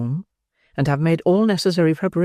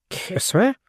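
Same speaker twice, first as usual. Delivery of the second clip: strong indignation; 5 semitones higher than usual. Acted. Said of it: "exclaimed Mister Bumble in strong indignation".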